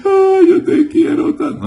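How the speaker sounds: very high, sobbing wail; overdone weepy declaration of love; mock crying. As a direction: bawl it in a squeaky fake cry. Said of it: "se pusiera a llorar".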